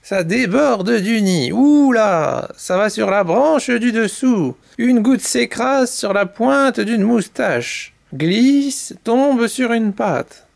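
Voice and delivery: animated, expressive storyteller; children's story narration. A narrator's reading. Mamie Poule tells chicks the canary's tale, lively narration. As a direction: tell it vividly to little listeners.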